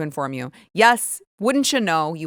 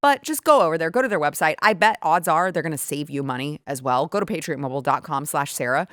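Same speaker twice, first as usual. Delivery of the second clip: brisk, upbeat sponsor read; host endorsement, key words punched; 2 semitones lower than usual. Acted. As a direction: pitch the product to loyal listeners.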